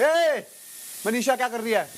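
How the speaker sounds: a light demo of how scolding in anger would sound; snapping at her in a short mock-angry demo; angry call-out. Shown as a demonstration. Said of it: "पर किसी के सामने गुस्से में नहीं बोलूंगा तेरे को".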